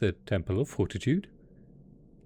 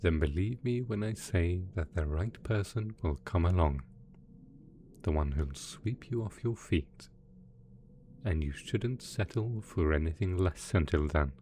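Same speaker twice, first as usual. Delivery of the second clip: tender reassurance; 2 semitones lower than usual. Acted. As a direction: reassure them affectionately, keeping the voice down. Villain tenderly praises dear assistant.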